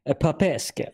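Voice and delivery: pappeske in a put-on Russian accent; Russian-accented rendering of a foreign word. Shown as a demonstration. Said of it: "Can you say it with a Russian accent".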